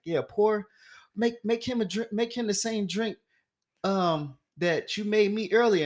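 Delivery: lightly voiced rich guy calling for drinks; bossy host. Stranger ordering drinks.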